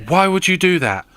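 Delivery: hammed-up friend's outrage; salty protest. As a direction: imitate a friend's salty complaint. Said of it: "he gets so salty".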